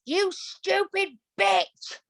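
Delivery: high, slow, drawn-out insult; mock furious outburst. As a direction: spit it out slowly like a furious rant. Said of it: "I remember being like".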